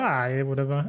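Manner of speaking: soft, offhand shrug in the voice; keeping cool. Retold or imitated. Diner retelling how he let the mix-up go, keeping cool. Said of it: "I just kept my cool".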